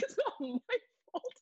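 high, slow mock-whiny protest; dad defending himself. Dad protesting to mom about the plain box, whiny and high. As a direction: plead innocence in a high put-on voice. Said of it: "my dad's like".

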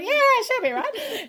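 high, drawn-out Aussie reassurance; broad Australian. Acted. Singer sending up her inner Australian, broad Australian. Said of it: "the Australian in me went".

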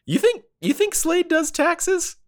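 high, giggling question; laughing disbelief. Real, not acted. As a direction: ask through laughter.

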